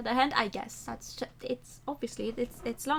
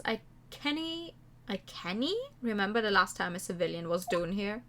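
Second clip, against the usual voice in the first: lightly Scottish prison governor; a hint of a gruff Scottish governor; Scottish accent; 3 semitones lower, 3 dB quieter than usual. Governor greets the visiting lawyer in a light Scottish accent.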